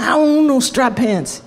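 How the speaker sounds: hammed-up raspy denial; raspy Miles voice. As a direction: bicker back in a light rasp. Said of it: "the raspy voice".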